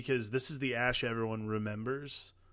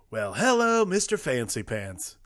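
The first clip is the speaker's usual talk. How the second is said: cocky Ash line; 5 dB louder, slower than usual. Retold or imitated. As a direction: sneer it out swaggering. Iconic Ash line quoted.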